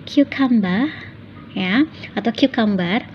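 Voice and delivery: "cucumber" said as KYOO-kum-ber; careful teacher's "cucumber" with a rising end; correct pronunciation. Shown as a demonstration. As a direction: model the right "cucumber" clearly.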